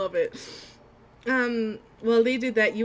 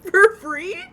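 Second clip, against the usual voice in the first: surprised; 10 semitones higher, 12 dB louder than usual. Real, not acted. Amazed at free game.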